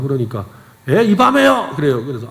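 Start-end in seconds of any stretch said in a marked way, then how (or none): 0.9-1.7 high, loud incredulous question; mock put-out shopkeeper's exclamation; retold surprise. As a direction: balk at a customer this late, pitched up. Retold shop owner's reaction to late customer.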